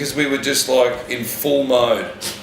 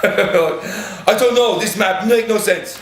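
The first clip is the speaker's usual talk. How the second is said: higher, slow broken-English driver voice, laughing through it; mock the lost driver, higher and dragged out; imitating the driver; 7 semitones higher, much slower than usual. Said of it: "Mark just goes".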